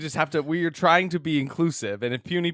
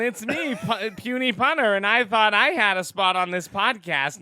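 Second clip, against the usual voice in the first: goofy character voice; 2 semitones higher than usual. Acted. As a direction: play the corny pun guy, lightly. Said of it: "wanna stop talking like this".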